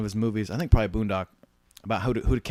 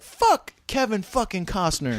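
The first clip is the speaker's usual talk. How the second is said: mock furious catchphrase; 10 semitones higher, 5 dB louder, slower than usual. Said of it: "we'd be like".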